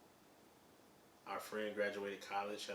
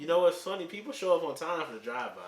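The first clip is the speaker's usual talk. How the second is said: laughing; 10 semitones higher, 13 dB louder than usual. Real, not acted. Laughing at a funny observation.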